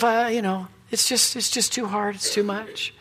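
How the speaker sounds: soft, mildly mock poor-me voice; understated woe-is-me; self-pity. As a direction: quietly feel sorry for yourself, half acted. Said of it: "in self-pity, sort of saying to myself".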